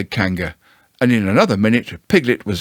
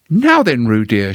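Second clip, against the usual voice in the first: Kanga's voice. Acted. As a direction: tease him in Kanga's voice. Kanga joking with Piglet.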